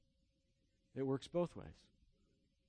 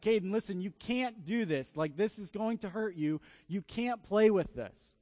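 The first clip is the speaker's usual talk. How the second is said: firm, higher-pitched parental scolding; stern warning; 5 semitones higher, 5 dB louder than usual. Retold or imitated. Mother warning toddler, retold.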